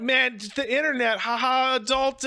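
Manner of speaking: high, squeaky mock of a giddy millennial. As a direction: lampoon them in a silly high voice. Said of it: "you'll see millennials, like, be like".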